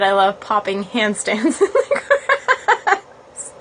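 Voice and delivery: laughing through the corrected words; giggling as the right words come out; corrected reading, laughing. Retold or imitated. Reading the viewer's comment aloud, laughing. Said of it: "I realized you said".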